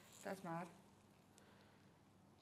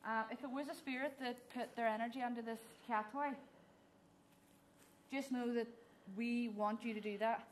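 calling out to spirits. Acted. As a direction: address the spirits clearly and politely. Calls out to spirits.

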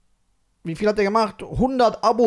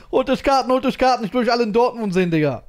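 hyped up; 4 semitones higher, faster than usual. Real, not acted. Hyping fans to buy tickets.

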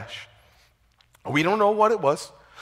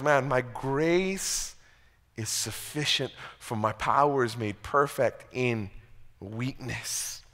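solemn reassurance; 6 semitones lower, 7 dB quieter, slower than usual. Retold or imitated. God's reply quoted again.

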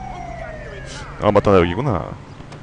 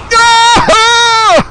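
high, long, loud whoop; 4 dB louder, much slower than usual. Real, not acted. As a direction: let out a wild yee-ha. Stunt whoop. (길고 높게 신나는 함성)

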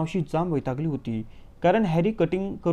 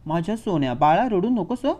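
mock-soothing mother crying out to her son; crying out to her darling; 3 semitones higher, 3 dB louder than usual. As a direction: coo and cry out over the spoiled boy. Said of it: "ओरडून म्हणाली". (मुलाला कुरवाळत ओरडणारी आई)

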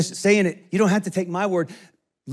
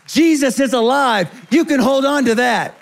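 ringing proclamation; 4 semitones higher, 4 dB louder than usual. Real, not acted. Preacher's climactic proclamation.

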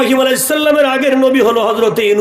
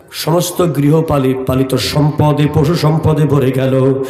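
melodic waz preaching. Acted. Preacher recounting a prophet's story to a congregation, melodic chant. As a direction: tell the story in long, chanted phrases.

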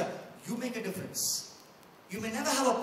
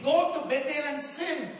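higher mock invitation with a wry smile; wryly sarcastic; 4 semitones higher, 4 dB louder than usual. Preacher showing Amos's humor, wry mock urging. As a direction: deliver it as tongue-in-cheek advice. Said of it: "He's smiling wryly as he's saying".

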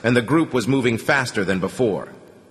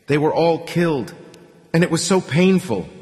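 high, choked words through tears; sobbing; 7 semitones higher than usual. A narrator's reading. Grieving man telling Artyom of the dead, sobbing. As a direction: push the words out between sobs. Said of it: "made out the words between sobs".

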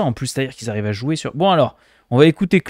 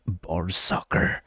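slow mock English; 7 semitones lower, 4 dB quieter, much slower than usual. Mimics viewer's 'ball soccer' slowly.

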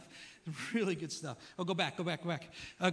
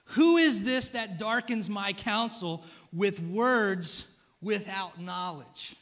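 slow, loud, commanding voice of God; booming God; 6 dB louder, slower than usual. Retold or imitated. Pastor voicing God to Job, slow and booming. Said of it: "He said".

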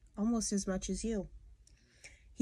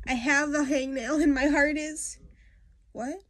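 put-on higher, louder complaining kid voice; whiny sick girl; 6 semitones higher, 6 dB louder than usual. Girl begging to skip school, higher and louder whining. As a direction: pile on every ailment like a whiny child faking sick. Voicing sick Peggy Ann.

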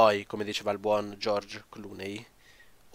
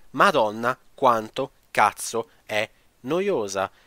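slow, loud, word-by-word exasperation; exasperated emphasis; 6 dB louder, much slower than usual. Real, not acted. Reviewer venting about a boring story mode, exasperated. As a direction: drag it out, punching each word in exasperation.

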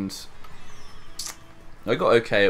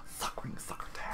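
hushed cartoon lisp; whispered cartoon voice; 18 dB quieter than usual. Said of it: "Being someone from Looney Tunes".

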